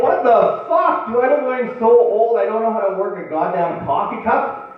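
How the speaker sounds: loud, high-pitched comic outrage; pissed-off rant. Retold or imitated. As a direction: blow up at being patronized, pitch way up. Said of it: "I was really pissed off".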